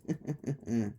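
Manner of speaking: quiet, low chuckle; short soft villain laugh; gloating chuckle. Acted. Toy Bonnie mocks Abby through the window, quiet chuckle.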